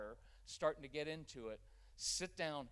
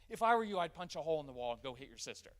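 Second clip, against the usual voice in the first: mock wrong advice; 7 dB louder, faster than usual. Shown as a demonstration. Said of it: "What I didn't say was".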